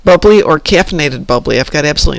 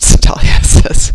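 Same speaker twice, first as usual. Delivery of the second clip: laughing; 6 dB louder, slower than usual. Real, not acted. Laughing while reading chat.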